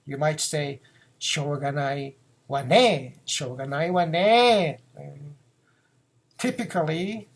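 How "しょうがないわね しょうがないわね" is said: feminine phrasing. Shown as a demonstration. Teacher demonstrating a woman's しょうがないわね. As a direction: say it the way a woman would. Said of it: "Or if you are a woman, you might say".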